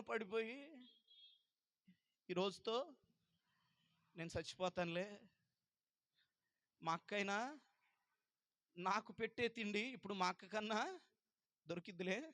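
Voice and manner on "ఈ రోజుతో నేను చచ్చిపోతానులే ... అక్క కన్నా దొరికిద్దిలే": much softer and lower, fading; weak dying murmur. Retold or imitated. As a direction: say it quietly, as if too weak to go on. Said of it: "అని ఏడుస్తా పడిపోయి". (నీరసంగా చచ్చిపోతున్నట్టు మెల్లగా గొణుగుతూ)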